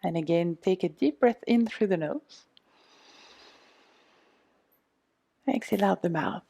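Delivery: guided meditation. Acted. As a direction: talk them gently through the massage. Leads a guided self-massage meditation.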